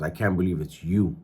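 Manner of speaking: low, understated disappointment; retold letdown, voice dropped a little; quiet disappointment. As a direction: say it low, mildly let down. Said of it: "he was very disappointed".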